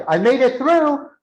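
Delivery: high, rising happy cry; triumphant relief. Retold or imitated. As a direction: imitate a trainee thrilled to have survived. Retelling trainee's triumphant relief.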